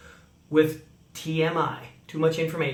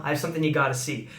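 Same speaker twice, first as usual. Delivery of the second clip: smiling; 3 semitones lower, 3 dB quieter, much faster than usual. Shown as a demonstration. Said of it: "And, and smile".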